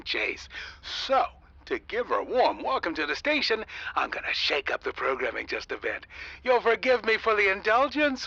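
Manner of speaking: radio DJ patter. Acted. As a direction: charm the listeners over the air. On-air DJ announcement.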